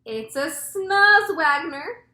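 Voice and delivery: high, loud, drawn-out alarm; stretched-out shout of alarm; cried out. A narrator's reading. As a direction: cry out the monster's name slowly. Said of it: "cried the chief of police".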